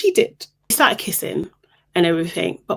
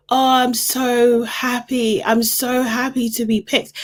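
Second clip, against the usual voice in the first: mock childlike delight; childlike gushing; 5 semitones higher than usual. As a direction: imitate a girl gushing with childlike happiness. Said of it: "It's quite childlike, actually".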